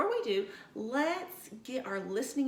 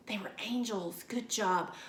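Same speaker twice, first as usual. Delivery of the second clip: whispering; 2 semitones lower than usual. Real, not acted. Answering for the children.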